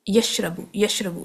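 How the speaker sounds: یشربو with sheen cut short; quick یشربو clipped sh; short sheen, wrong. Shown as a demonstration. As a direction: show the mistake. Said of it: "یوں نہیں".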